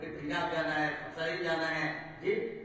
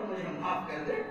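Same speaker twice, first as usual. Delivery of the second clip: a raised, pleading cry for pardon; begging forgiveness; 3 semitones higher, 3 dB louder than usual. Retold or imitated. Young man at his uncle's feet begs forgiveness, pleading. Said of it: "لپٹ پڑا اور اسے قدموں میں گر گیا".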